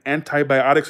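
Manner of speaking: mock American "antibiotics", AN-tie-by-OT-ics; mocking pronunciation. London friend teasing the speaker, "antibiotics" as an-TIE-by-otics. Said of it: "she was mocking it".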